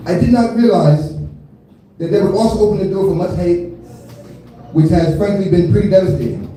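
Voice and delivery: put-on rough stab at an Australian accent; amateur Australian accent impression; attempted Australian accent. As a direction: read it out in a lightly faked Australian accent. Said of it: "My accent is horrible".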